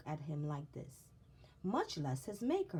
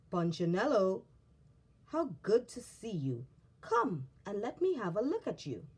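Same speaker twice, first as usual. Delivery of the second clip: warm booming greeting; 2 semitones higher, 5 dB louder than usual. Acted. Eli greets warmly and loudly.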